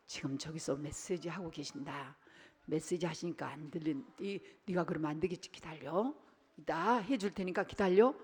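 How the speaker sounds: put-on father murmuring into his child's ear; quiet into the ear. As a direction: hush a restless kid close to his ear. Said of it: "이 귀에다 대고 얘기했죠".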